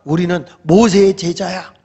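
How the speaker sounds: mild retold scolding. Pharisees rebuking the healed man, scolding. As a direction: put him down as a rebuke. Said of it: "막 야단을 치면서".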